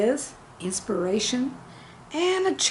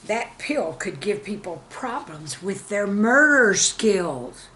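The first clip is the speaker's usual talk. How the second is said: mock ad voice; 4 dB louder than usual. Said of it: "they said".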